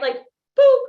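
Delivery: "boop" squeaked high and loud, rising; cartoon "boop" with a bright upward pop; playful boop. Shown as a demonstration. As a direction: show the crowd a loud, high, silly "boop". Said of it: "I want everybody to go like this".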